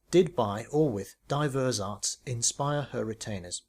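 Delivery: slow, trying the phrase out; testing the wording aloud; tentative reading. Acted. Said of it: "Did with or by?".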